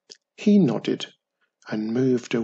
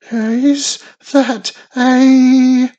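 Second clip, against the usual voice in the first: high, loud, slow stammer in shock; 12 semitones higher, 13 dB louder, much slower than usual. A narrator's reading. Wisby stammers at the egg breaking open, high and halting. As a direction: stumble over the words, astonished. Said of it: "stammered Wisby".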